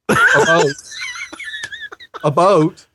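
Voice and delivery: "A boat" said like "a boat", with a rounded "oh"; slow, drawn-out "A boat" as a demo; Canadian "about". Shown as a demonstration. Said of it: "That is the Canadian way".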